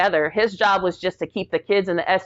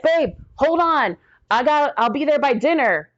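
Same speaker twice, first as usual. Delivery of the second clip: frantic; 8 semitones higher than usual. Retold or imitated. Wife on the phone to her crashing husband, frantic and high. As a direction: beg him to hold on, voice pitched up in alarm.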